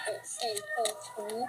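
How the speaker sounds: muffled behind a gas mask; through a gas mask. Real, not acted. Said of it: "I had to actually put my gas mask on".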